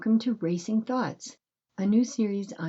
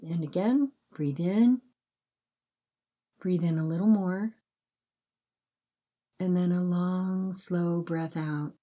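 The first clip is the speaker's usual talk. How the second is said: calm, unhurried breathing guidance with long pauses; gentle bedtime meditation voice, measured and spacious; guided meditation. Acted.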